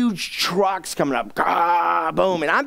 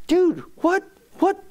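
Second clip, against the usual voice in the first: baffled whisper-call; 11 semitones higher, slower than usual. Retold or imitated. Baffled aside to neighbor.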